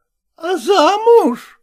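high, slow amazed cry; exclaiming. A narrator's reading. Marimyana marvelling at the news, exclaiming. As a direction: drag it out in wonder. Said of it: "воскликнула Маримьяна Ивановна".

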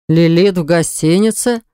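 slow, baffled exclamation; drawn-out disbelief; a hint of stunned older brother; bewildered. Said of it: "недоуменный возглас Баграта".

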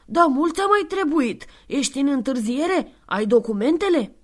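put-on high, loud impatient child; bratty girl. Antonia demands documents from Santa, high and impatient. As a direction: snap like a spoiled boss girl.

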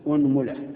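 أنملة with u on the hamza, said as unmula; pronunciation demo. Shown as a demonstration. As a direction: round the opening of أنملة as u. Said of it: "ضم الهمزة". (أنملة بضم الهمزة)

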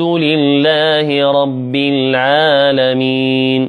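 slow, sustained tajweed recitation; Quranic recitation. Shown as a demonstration. Teacher recites the verse for students to repeat, measured recitation. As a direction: recite it measured, drawing out the long vowels. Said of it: "الآن أقرأ ثم".

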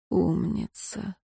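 soft slow whisper; whispered praise. Acted. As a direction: breathe the word tenderly. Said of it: "снова прошептал Люцифер". (ласковый шёпот)

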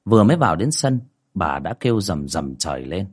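measured storytelling voice over music; story narration. A narrator's reading. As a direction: tell the ghost tale steadily. Reads ghost story over music.

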